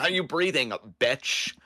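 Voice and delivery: sneering fake sweet mean girl; catty mean-girl taunt. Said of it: "You said it like a mean girl".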